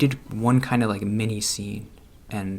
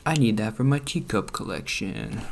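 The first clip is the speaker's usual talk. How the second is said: playful excitement. Retold or imitated. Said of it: "just be like".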